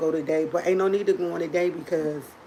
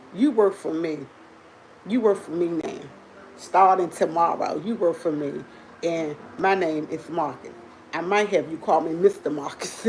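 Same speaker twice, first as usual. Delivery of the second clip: bossy brother. Retold or imitated. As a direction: lay down the law as her brother. Retelling brother bossing her around.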